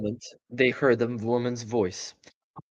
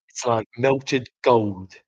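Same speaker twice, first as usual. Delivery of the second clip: slow, breathless wonder; gasped in awe; 4 dB louder, much slower than usual. Acted. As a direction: savor each word slowly. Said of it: "he gasped".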